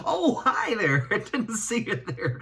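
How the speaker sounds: high, hammed-up startled greeting; mock surprise. Host pretending to spot the viewers, mock surprised. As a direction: pretend you just noticed them.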